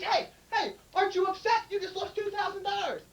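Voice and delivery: high-pitched, baffled questioning; incredulous bartender. Acted. Bartender asking customer about lost money, high and incredulous. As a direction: question the loser in a lifted voice. Bartender acting puzzled at loser.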